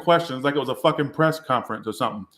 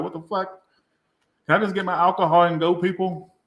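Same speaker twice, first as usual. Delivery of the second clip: higher, exasperated mock plea; 5 semitones higher than usual. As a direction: act fed up with the pestering crowd. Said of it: "I'm like".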